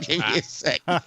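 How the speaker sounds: high and giggling; stoner. Real, not acted. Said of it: "I'm high as shit right now".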